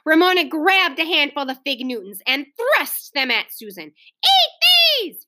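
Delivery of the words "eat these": high shouted command; shouting. A narrator's reading. Hostess thrusts cookies at Susan, shouting. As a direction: shout it as a child's bossy order. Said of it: "she shouted".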